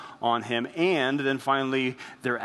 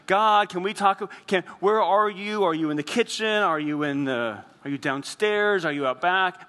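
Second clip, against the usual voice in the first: calling around for God; 5 semitones higher than usual. Pretend. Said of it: "I don't wanna be like".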